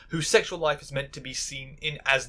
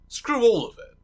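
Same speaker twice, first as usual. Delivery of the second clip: higher, louder angry outburst; 8 semitones higher, 4 dB louder than usual. Real, not acted. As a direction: fling it out in disgust. Angry rant against the show.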